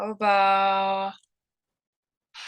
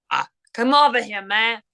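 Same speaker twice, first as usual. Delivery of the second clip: put-on East Coast accent; 3 dB louder than usual. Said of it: "My East Coast voice".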